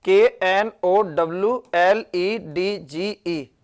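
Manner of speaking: slow letter-by-letter spelling; spelled out. Shown as a demonstration. Teacher slowly spelling the word out for students. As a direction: spell "के एन ओ डब्ल्यू एल ई डी जी ई" slowly, one letter at a time.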